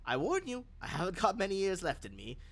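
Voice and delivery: put-on old lady, dry and defiant; stern old woman. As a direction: threaten them with spite, then offer tea. Elderly NPC warns the party.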